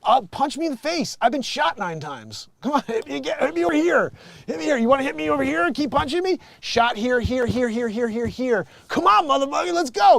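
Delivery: high, loud, hyped taunting; mock rapper taunt. Rapper daring a fighter to punch him, hyped taunt. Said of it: "That dude's like".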